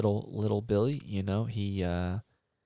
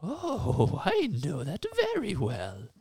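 mystical forest master; 3 semitones higher than usual. Acted. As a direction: announce yourself as lord of the forest. Woods master continues.

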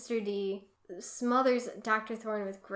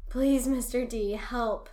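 louder, retold plea for help; mild plea; 2 semitones higher, 6 dB louder than usual. Retelling Percy begging Mister D, a mild plea. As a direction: lean on the first word, lightly imploring.

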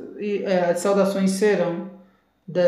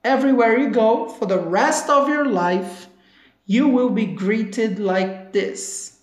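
slow, drawn-out model line; slow demo; slower than usual. Shown as a demonstration. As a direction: stretch each word for learners. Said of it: "ele fala o seguinte".

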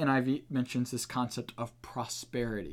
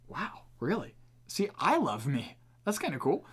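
higher, mildly impressed stranger; a light touch of wow, higher; pleasantly surprised; 4 semitones higher than usual. Retold or imitated. Stranger hearing about God's love, mildly impressed and pitched up. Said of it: "They're gonna think".

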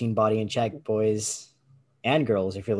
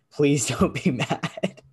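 mock pleading, higher and slow through a laugh; laughing plea; 4 semitones higher, much slower than usual. Traveler retelling his apology for a borrowed accent, laughing plea. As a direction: laugh while begging, drawn out.

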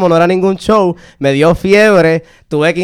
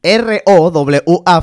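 letters spelled out one by one, very slow; spelled slowly; much slower than usual. Shown as a demonstration. Guest spelling his surname for the host, very slowly. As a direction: drag each letter out as he spells his name. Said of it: "lo deletreé".

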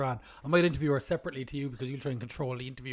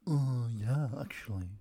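mocking Kate's voice; 5 semitones lower, slower than usual. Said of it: "I didn't speak like that".

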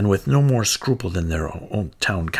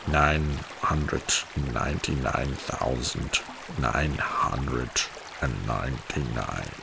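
put-on low, slow old rat counting; twitchy squeaking rat voice; 8 semitones lower, 6 dB quieter, slower than usual. A narrator's reading.

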